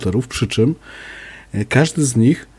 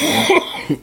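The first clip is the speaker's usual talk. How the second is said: chesty cough. Real, not acted. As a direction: cough hard and high into the mic. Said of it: "Przepraszam za ten kaszel".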